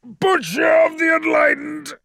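very high, loud scream; furious captive screaming an accusation. A narrator's reading. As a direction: scream it at him with all you have. Screaming tirade at Emperor.

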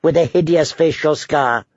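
put-on protest to a killer; mock protest. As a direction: playfully plead mistaken identity. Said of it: "I'll say".

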